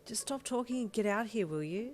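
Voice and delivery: laughing. A narrator's reading. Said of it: "she laughed".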